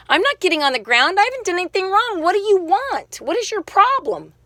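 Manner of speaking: high, fast, indignant pushback; retelling her own agitated protest to the officer; heated defiance. Retold or imitated. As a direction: fire back at the cop, outraged. Defiant retort to police officer.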